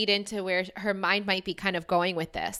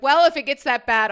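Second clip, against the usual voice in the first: mock defiant outburst; 6 semitones higher, 9 dB louder than usual. Quoting her own defiant thought.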